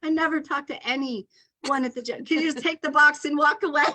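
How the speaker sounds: high, comic exasperation; hammed-up retold exasperation; exasperated plea. Retelling her exasperated plea.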